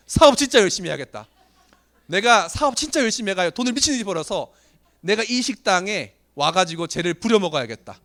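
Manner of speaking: gritted, heated resolution; angry vow. Retold or imitated. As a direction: swear you'll get rich and come back. Vowing revenge after being humiliated.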